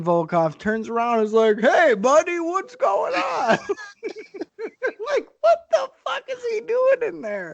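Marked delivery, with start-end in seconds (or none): 1.6-3.6 high, slow, friendly goofy voice; high, drawn-out buddy greeting; cheerful Volkov. Retold or imitated. 3.6-7.5 laughing. Real, not acted. Laughing disbelief at scene.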